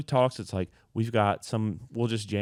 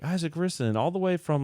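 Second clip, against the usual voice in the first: high stage-announcer hype; band introduction; 7 semitones higher than usual. Retold or imitated. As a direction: imitate introducing a musician to the crowd. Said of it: "we'd be like".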